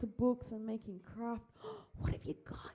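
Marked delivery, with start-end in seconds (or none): 1.6-2.7 surprised. Real, not acted. Sees a child's drawing.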